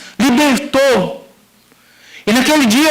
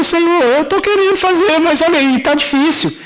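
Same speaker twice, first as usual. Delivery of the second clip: higher-pitched helpless complaint; acted-out pleading under difficulty; retold plea to God; 8 semitones higher than usual.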